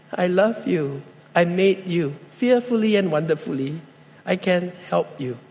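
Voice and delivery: soft, gentle reassurance; tender voice of God. Pretend. Preacher voicing God to the hurting, soft and tender. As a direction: speak it like a loving father.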